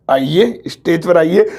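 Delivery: low, respectful call to the stage; polite formal invitation. Shown as a demonstration. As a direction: welcome the guest up with honour. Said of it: "वो इज्जत".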